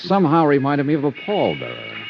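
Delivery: hard-boiled detective narration over eerie music; a dry, wry private-eye account of the night; story narration. Acted. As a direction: investigator narrating the arrival at the medium's house. Detective narrates arrival at seance house.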